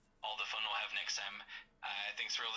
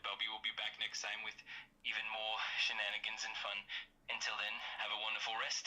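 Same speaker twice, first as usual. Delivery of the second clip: put-on UK accent. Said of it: "just in your U K voice".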